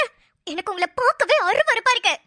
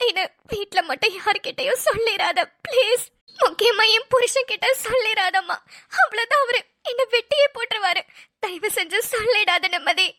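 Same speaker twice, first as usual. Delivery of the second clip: tearful pleading. Acted. Caught woman begs for silence.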